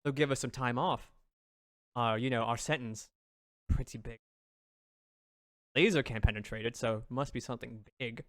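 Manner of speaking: lightly voiced schemer. Kobold pitching time off to fellow prisoners, low-key. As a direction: propose it quietly and low.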